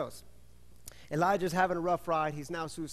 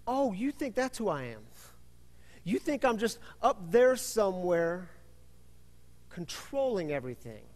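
God's retort; 3 semitones higher than usual. Acted. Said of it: "God responds with something like this".

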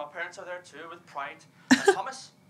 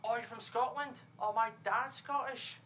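tag; 5 semitones higher, slower than usual. Retold or imitated. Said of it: "they say things like".

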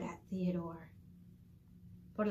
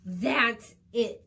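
snarling; 7 dB louder than usual. Acted. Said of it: "Theodore snarled".

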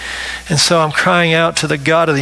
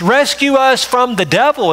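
high urgent plea for rescue; pleading prayer; 7 semitones higher than usual. Pretend. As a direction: cry out to God to be saved. Voicing a plea to God.

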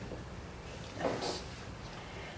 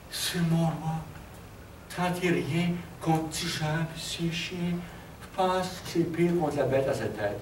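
dying man; 6 dB quieter than usual. Acted. Dying survivor warns the king with his last words, weak voice. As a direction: gasp out a last warning, much softer. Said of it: "il était aux trois quarts mourant".

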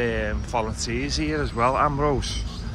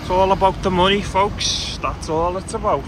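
building to louder, higher outrage; fast, then loud and high on it's all about the money; indignant rant; 4 semitones higher, 6 dB louder than usual. Real, not acted. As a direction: rail against the greed.

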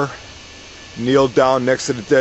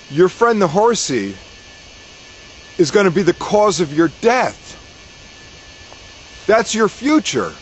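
higher witch voice delivering doom; pitched up and solemn, a fortune teller's warning; witch's prophecy; 6 semitones higher than usual. Acted. Witch predicts the farmer's death.

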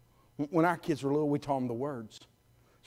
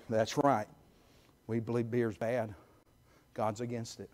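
much softer, low conspiratorial murmur; hushed aside; 10 semitones lower, 12 dB quieter than usual. Retold or imitated. Parents quietly backing up their son in the store. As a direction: lean down and say it softly.

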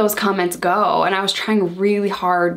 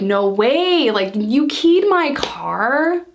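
slow, stretched-out question of disbelief, rising at the end; half-smiling, can't believe she keyed it; 4 semitones higher, much slower than usual. Retold or imitated. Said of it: "Almost smiling in disbelief".

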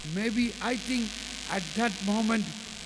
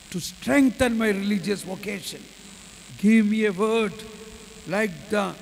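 prayer. Real, not acted. Leads spoken prayer.

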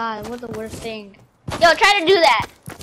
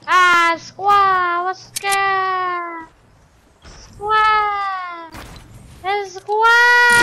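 drawn-out squawk; much slower than usual. Pretend. Squawking nonsense while showing off building.

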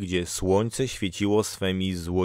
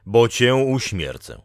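loud, higher threat; called-out threat; 4 semitones higher, 6 dB louder than usual. A narrator's reading. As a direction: threaten her in a raised voice. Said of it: "wołał". (głośna, podniesiona groźba)

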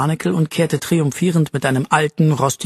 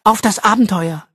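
smiling repeat; 5 semitones higher than usual. Acted. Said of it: "wiederholte Arabella und lächelte".

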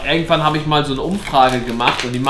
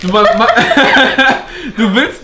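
laughing; 4 semitones higher than usual. Real, not acted. Laughing over sour candy.

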